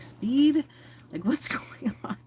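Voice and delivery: mock surprise. Retelling her reaction to doctor.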